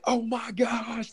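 high, slow, half-whispered oh my gosh; stunned thought said aloud, drawn out; inner gasp of surprise. Retold or imitated. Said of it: "like, in my head".

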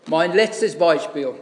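normal talking voice

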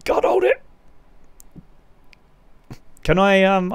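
speaking on a held breath; tight, breath held in; holding breath. Real, not acted. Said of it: "sorry, I'm still holding my breath".

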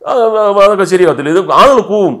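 voice gone airy. Retold or imitated. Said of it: "കാറ്റ് മാത്രമേ വരുന്നുള്ളൂ".

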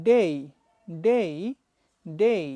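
day said with a clear ei glide; day spoken as Bangla এই sound. Shown as a demonstration. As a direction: stretch day into dei. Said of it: "So, it should be".

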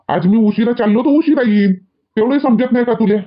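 irritated scolding. Acted. Husband irritated at wife questioning his late return, mildly scolding. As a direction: snap impatiently, without a full shout. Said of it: "ओरडता का?".

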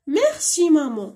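put-on teacher reading the child's thanks aloud; slow model reading. Shown as a demonstration. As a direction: read the child's line slowly. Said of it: "شكرا أمي".

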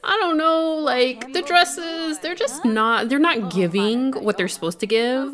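mock hesitant critic. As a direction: imitate a doubtful friend finding fault. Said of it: "She pretending like".

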